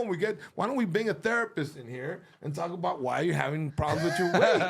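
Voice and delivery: incredulous, rising into laughter; mock-serious scolding through laughs; laughing confrontation. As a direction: call her out while cracking up. Confronting caller on air.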